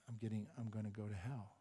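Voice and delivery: soft, low, grief-struck confession; hushed despair. Retold or imitated. Damned friend confesses to the dreamer, hushed despair. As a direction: say it quietly, as the condemned friend.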